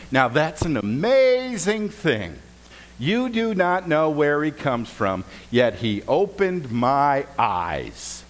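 slow, drawn-out sarcasm; dripping mock amazement; sarcastic. Healed man mocking the Pharisees with slow sarcasm. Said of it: "occasional place for sarcasm".

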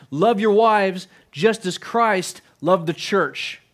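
each word laid down slowly and deliberately; solemn, unhurried scripture quote; slow scripture reading. Shown as a demonstration. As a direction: read the verse slowly, weighing every word. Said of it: "His emphasis is on".

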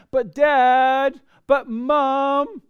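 put-on high whining "But Dad" like a child; whiny kid. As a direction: plead like a little kid. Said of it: "that's just what you sound like".

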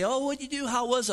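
mock-eager high question. Friend asks the pastor about his vacation, imitated eagerly. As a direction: lift it up like a curious friend asking. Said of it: "someone asked me today".

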